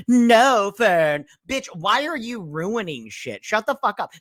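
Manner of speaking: hammed-up snapping at Fern to stop; mock yell. Imitating Farah yelling at Fern to stop. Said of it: "yelled out".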